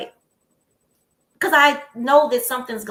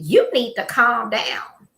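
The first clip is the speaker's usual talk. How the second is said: slow, louder, talking-down "calm down"; condescending rebuke; 3 semitones higher, 5 dB louder, much slower than usual. Retold or imitated. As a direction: lecture her slowly and loudly, like scolding a child. Quoting the caller's rebuke.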